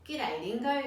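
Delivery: a brisk platypus hailing Dingo; snappy platypus greeting. A narrator's reading. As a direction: snap out a cheery hello. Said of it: "he said, snapping his bill".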